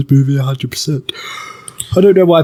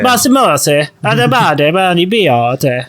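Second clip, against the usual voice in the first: gibberish Italian; slower than usual. Shown as a demonstration. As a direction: fake Italian, American-accented. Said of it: "but use gibberish".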